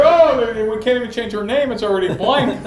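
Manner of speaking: frantic mother rambling, hammed up; mock-panicked mom voice; imitating mom. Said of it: "that's what she sounded like".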